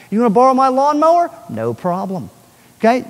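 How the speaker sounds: upbeat offer to a friend on the wall; breezy offer. Retold or imitated. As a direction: toss it out generously.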